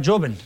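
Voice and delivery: «joven» con Y inicial; pronunciación antigua. Shown as a demonstration. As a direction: say «joven» with an opening Y sound. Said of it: "se pronunciaba". («joven» dicho «yoven», como antaño)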